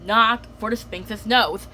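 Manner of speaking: slowly working it out; slow, dawning understanding; slow realization. Shown as a demonstration. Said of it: "I got it".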